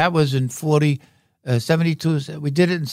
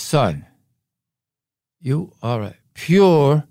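slow emphatic papa bear; slower than usual. Retold or imitated. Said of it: "Daddy Polar Bear says".

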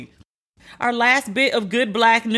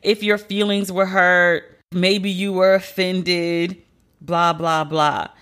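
slow sarcastic mockery; slower than usual. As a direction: drag out 'your' slowly, mocking. Mocking the fake apology again.

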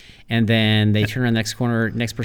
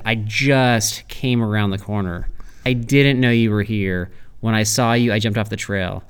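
firm, not angry. Retold or imitated. Retelling what was said to horseback riders, firm but fair. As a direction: make each point deliberately, without anger. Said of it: "I was very firm with what I said".

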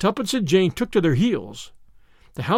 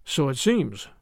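dry; 4 semitones lower, 3 dB quieter, slower than usual. A narrator's reading. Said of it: "said Sir James dryly".

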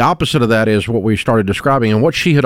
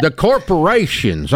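slow, higher mock grievance; mimicked complainer; 4 semitones higher, slower than usual. Host imitates people blaming corporations, mock grievance. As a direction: draw it out like a griper. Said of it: "I heard that".

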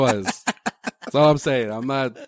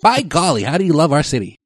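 folksy Indiana twang, higher pitch; Indiana accent; 3 semitones higher, 5 dB louder than usual. Shown as a demonstration. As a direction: do a hammy Indiana local. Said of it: "Give us a little sample".

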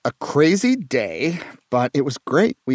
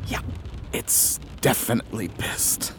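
whispering on the phone; 3 semitones lower, 6 dB quieter than usual. Acted.

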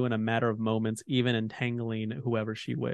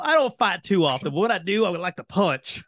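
playful Myliki voice; 6 semitones higher, 4 dB louder than usual. Acted. Voicing Myliki's fighting attitude.

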